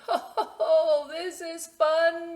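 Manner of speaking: high, loud laughing cheer; laughing animals. Acted. Farm animals laughing on bikes, high and loud. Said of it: "they all said".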